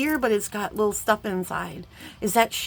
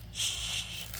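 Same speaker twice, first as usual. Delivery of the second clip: shush; 11 dB quieter than usual. Real, not acted. Hushing while unboxing.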